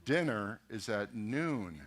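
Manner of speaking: slow repeat. Retold or imitated. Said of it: "He goes".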